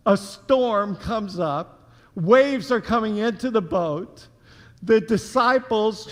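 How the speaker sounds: a storm comes up said slowly; slow down and let the storm land; slow retelling. Shown as a demonstration. Pastor retelling the storm to his congregation, slow and deliberate. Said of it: "Let me say that again".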